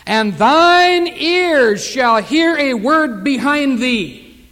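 drawn-out, solemn reading of the verse; slow scripture reading. Acted. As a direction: stretch each word of the verse out. Preacher quoting scripture slowly.

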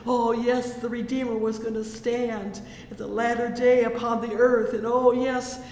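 building from firm to loud pulpit fervour; fervent preaching. Acted. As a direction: rise to a loud, jubilant preaching climax.

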